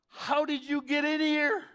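high, loud demanding voice; challenging guard. Acted. Gatekeeper to the thief, loud demanding challenge. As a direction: bar the door and demand an answer.

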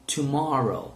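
"Tomorrow" said carefully for repeating; a clear teacher's model of "Tomorrow"; model pronunciation. Shown as a demonstration. English teacher models "Tomorrow" for students to repeat, careful pronunciation. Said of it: "Repeat after me".

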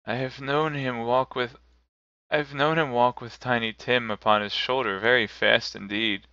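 steady cheerful, faltering once. Acted. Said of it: "cheerful voice that only faltered once".

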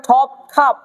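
ঠপ, খাপ with a puff of air on each first consonant; breathy release opening ঠপ and খাপ; aspirated T and K. Shown as a demonstration. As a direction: hit ঠপ and খাপ with strongly aspirated th and kh. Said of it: "কাপ থেকে হবে খাপ".

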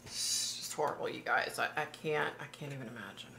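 real dismay, fading into a whisper; horrified hush. Real, not acted. Reader to viewers about a horrible death, hushed dismay. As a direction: trail away softly, at a loss. Distressed reaction after reading aloud.

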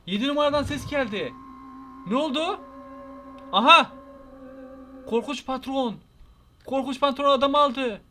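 high-pitched, startled reacting; alarmed. Real, not acted. Player sees the scary boss take the man, alarmed. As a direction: exclaim in rising alarm.

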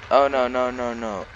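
loud hammed-up panic; mock panic.

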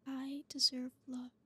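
slow whispered I deserve love; slow earnest affirmation. Shown as a demonstration. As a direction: breathe it out slowly as a vow. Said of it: "say it like you mean it".

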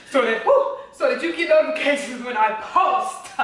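preaching cadence with a whoo; pastor voice. Acted. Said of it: "you sound like a pastor".

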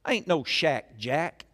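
a lightly voiced Louisiana Duck Commander drawl on "I ain't no Shaq Jack". Preacher doing a Louisiana Duck Commander accent for the church. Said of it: "Now, Duck Commander".

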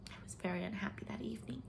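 quick whispered sorrow; unhappy whisper. Acted. Leslie telling Anne of a bad evening, whispered. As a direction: hurry through it in a whisper. Sad confession.

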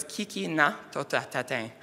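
"Kiki na to tatatin" with each part distinct; measured Cree "Kiki na to tatatin", syllables clearly separated; Cree pronunciation. Shown as a demonstration. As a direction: repeat "Kiki na to tatatin" carefully as the Cree teacher said it. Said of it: "how to pronounce it".

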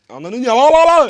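loud, high frustrated yell at the flubbed line; frustrated outburst. Real, not acted. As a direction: blow up at yourself, loud and high. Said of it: "Türkçe diyorum". (yüksek sesle sinirli patlama)

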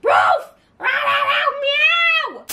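high playful animal noises. Pretend. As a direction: bark and yip like puppies.

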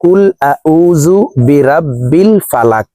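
"কুল আউযু বিরাব্বিল ফালাক" said the common wrong way, plain Bengali sounds; wrong pronunciation. Shown as a demonstration. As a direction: demonstrate the mistake: "আউযু" with a plain z and no Arabic sounds. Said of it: "আমরা অনেকে এইভাবে পড়ে থাকি".

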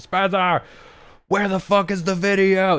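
high, strained mock yell. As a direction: yell it as if across a production room. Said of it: "He just yells".

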